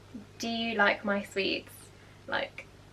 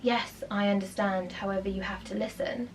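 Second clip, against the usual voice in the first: calm; 5 dB quieter than usual. Retold or imitated. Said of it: "he just goes".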